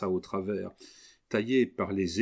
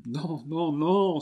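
rising cry of no, louder at the end; trembling cry; 8 semitones higher, 4 dB louder, slower than usual. Acted. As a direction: recoil in horror, crying out. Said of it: "s'écria Camille en frémissant". (cri frémissant de refus)

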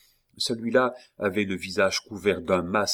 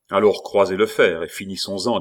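angry challenge; 7 dB louder than usual. Acted. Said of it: "dit le jeune homme".

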